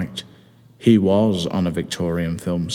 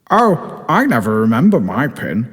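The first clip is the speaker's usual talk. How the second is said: smug; 3 semitones higher than usual. Acted. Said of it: "in an oddly smug tone of voice".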